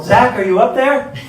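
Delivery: mock yell. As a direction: call up to the flat, half-shouting. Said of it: "did you really need to yell".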